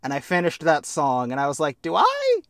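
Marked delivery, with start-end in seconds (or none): 1.8-2.4 high, laughing question. Real, not acted. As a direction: laugh through the words. Laughing at own realization.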